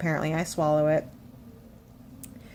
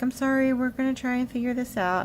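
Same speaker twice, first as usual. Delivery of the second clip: sympathetic apology; 6 semitones higher than usual. Retold or imitated. Nutritionist promising to help her patient, imitated sympathy. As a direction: mimic a consoling nutritionist.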